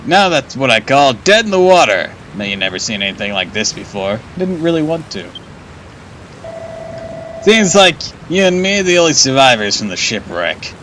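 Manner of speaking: a hint of a chatty shipwreck survivor; lightly voiced castaway.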